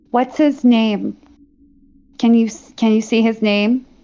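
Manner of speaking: hushed, whispering character voice. Voicing a character whispering a question to another player: whispering character. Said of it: "She's kinda gonna whisper to you".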